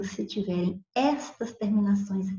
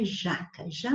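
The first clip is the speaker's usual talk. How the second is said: JAca with the first syllable stressed; tônica em já; 2 semitones lower, 4 dB quieter than usual. Shown as a demonstration. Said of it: "o já é a sílaba mais forte". (sílaba tônica no "já" de "jaca")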